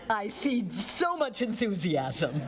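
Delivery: slow, dry sarcastic tease with a laugh. Real, not acted. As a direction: tease the bored class drily. Teacher teasing a silent class.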